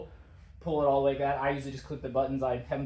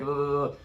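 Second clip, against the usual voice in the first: imitated shiver noise; shivering shudder. Showing viewers how the body reacts after getting out, mock shiver. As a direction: shudder as if chilled through. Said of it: "like, shivering".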